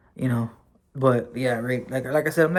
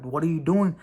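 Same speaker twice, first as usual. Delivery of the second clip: retold angry order; 3 semitones higher than usual. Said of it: "Like, I got pissed".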